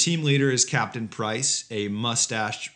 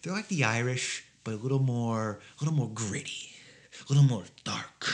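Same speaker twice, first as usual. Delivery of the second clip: mock Russian accent.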